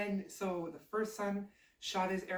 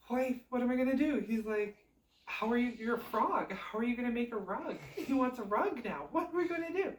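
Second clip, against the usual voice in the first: fast, higher, rising panic; panicky husband; 5 semitones higher than usual. Acted. Son pleads with frog wife about the rug, rising panic. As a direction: spiral into worry, voice climbing.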